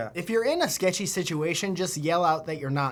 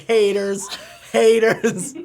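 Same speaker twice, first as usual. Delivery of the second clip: calling out haters; 3 semitones higher, 6 dB louder, much slower than usual. Pretend. Drunk girl calling out.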